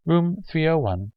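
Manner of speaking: high-pitched, patient nurse voice. Acted. Nurse sends old patient to the doctor, patiently. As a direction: give the direction patiently. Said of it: "the nurse said patiently".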